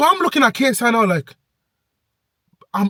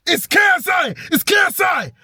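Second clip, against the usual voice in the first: high excited squeal, repeated; inner fan scream; 10 semitones higher than usual. Retold or imitated. Fan screaming inside at seeing his idol KSI. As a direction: let the starstruck fan scream out. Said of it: "I'm screaming".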